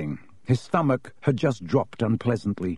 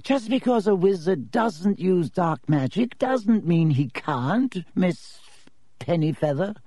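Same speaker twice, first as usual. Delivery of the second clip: snapping; 7 semitones higher than usual. Acted. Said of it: "snapped Professor Binns".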